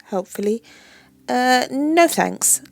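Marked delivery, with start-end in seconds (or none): 1.3-2.6 hesitant. Acted. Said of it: "I say after a pause".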